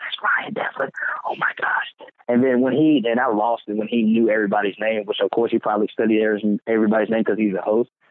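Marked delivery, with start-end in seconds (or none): 0.0-2.1 soft, hushed whisper spoken quietly aside. Retelling seeing the host getting makeup on stage: retelling own whisper. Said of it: "I'm whispering".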